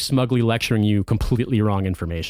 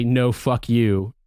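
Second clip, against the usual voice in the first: slow dismissive; much slower than usual. Retold or imitated. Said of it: "they would rather be able to say".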